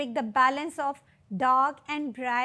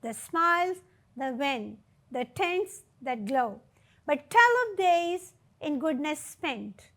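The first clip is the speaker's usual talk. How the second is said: slow, measured recitation with long pauses; poem recitation. Acted. Teacher reading the poem aloud to students, slow and measured. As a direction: savour each line of the poem. Teacher rereads final lines.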